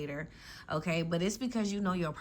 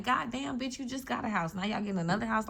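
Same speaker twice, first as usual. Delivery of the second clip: higher-pitched mock envy, half-laughing; mock jealous friend; 4 semitones higher than usual. Jealous friend to a lucky one, higher mock envy. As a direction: play the jealous friend gasping at a new house. Friends envying your upgrades.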